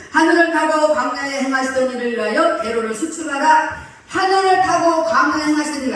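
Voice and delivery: loud, emphatic psalm reading; scripture reading. Acted. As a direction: proclaim the verse to the congregation. (설교자가 회중에게 시편을 힘차게 낭독)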